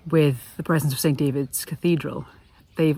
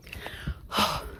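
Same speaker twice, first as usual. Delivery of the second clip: long tired exhale after climbing; breathless puff of air; heavy breath out; 10 dB quieter than usual. Real, not acted. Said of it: "Bit of heavy breathing going on here".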